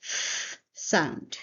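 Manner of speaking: a long voiceless hiss for F, then SOUND; isolated th sound. Shown as a demonstration. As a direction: hold the F as pure airflow before SOUND. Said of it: "many Serbians cannot pronounce".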